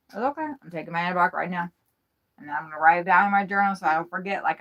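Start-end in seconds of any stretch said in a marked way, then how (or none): 0.1-0.5 soft self-soothing. Real, not acted. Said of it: "self-reassurance repeated".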